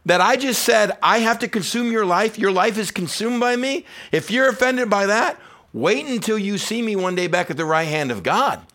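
loud, high, urgent preaching that pushes each if; preaching at full force. Acted. Pastor pressing the crowd to choose Jesus, fervent loud preaching. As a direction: drive it home to the congregation like a revival preacher.

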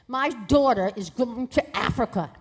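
lightly acted maternal dismay; imitating an exasperated mother; hysterical mother. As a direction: announce it as an outrage, mildly hammed-up. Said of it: "my mother was hysterical".

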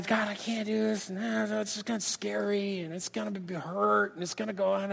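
quiet, mumbled mock whine; hushed, self-mocking complainer's whine; whining. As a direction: whine softly to God about being scared. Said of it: "I whine all the".

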